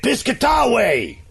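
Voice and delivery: Piscataway drawn out slowly, high; slow punchline. Acted. Telling the town-name joke, slow drawn-out Piscataway. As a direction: stretch out Piscataway slowly for the pun. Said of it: "and he said".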